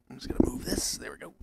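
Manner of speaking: soft unvoiced whisper aside. Real, not acted. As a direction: whisper it off-mic. Whispers aside fixing mic.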